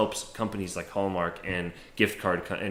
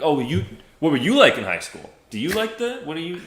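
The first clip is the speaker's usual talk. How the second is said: Brett Kavanaugh impression; 5 semitones higher than usual. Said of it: "pull a Brett Kavanaugh".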